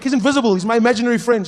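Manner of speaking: put-on high, loud insistent child; eager kid. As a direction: insist to granny. Child explaining.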